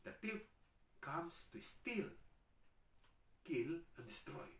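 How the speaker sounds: very high, very slow, drawn-out proclamation; preacher quoting the Bible on the thief, slow and high; dramatic scripture quote. Acted.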